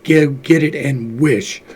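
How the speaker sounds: slow, quivering cry of urgency; quivering excitement. A narrator's reading. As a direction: tremble with eager urgency, drawn out slowly. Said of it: "cried his wife, quivering with excitement".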